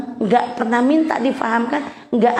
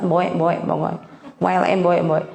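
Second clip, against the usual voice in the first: ugly croak; 6 semitones lower than usual. Shown as a demonstration. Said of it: "cempreng, elek banget".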